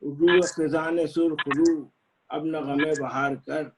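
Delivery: measured couplets with pauses; ghazal recitation. Acted. Poet sharing an old ghazal with friends, measured recitation. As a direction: recite the verse deliberately, half-line by half-line.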